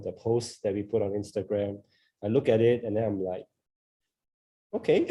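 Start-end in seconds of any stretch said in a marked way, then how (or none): 4.7-5.0 unimpressed okay. Retold or imitated. Self-judging own old posts.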